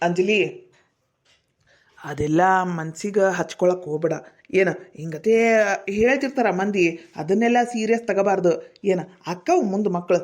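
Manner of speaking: low, reassuring voice; gently consoling. Acted. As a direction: talk someone down from tears. Consoling upset Anjali.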